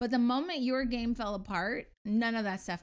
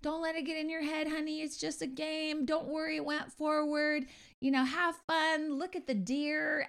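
mock sweet encouragement; 6 semitones higher than usual. Wife mimicking husband's own pep talk back at him, higher and sugary. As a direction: sarcastically soothe him. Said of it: "I was like".

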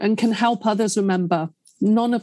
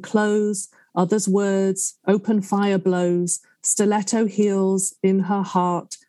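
poem reading; 3 semitones lower than usual. Shown as a demonstration. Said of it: "could you read Too Much for me?".

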